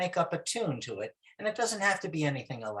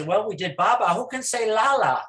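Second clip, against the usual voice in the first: teacher prompt; 6 semitones higher, 6 dB louder than usual. Shown as a demonstration. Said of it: "I say".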